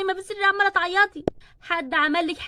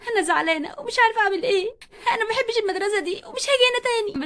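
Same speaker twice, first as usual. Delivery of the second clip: crying; 4 semitones higher than usual. Acted. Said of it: "بتعيط".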